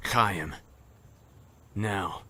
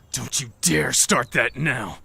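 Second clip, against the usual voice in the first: stern warning. Acted. Warning during the argument.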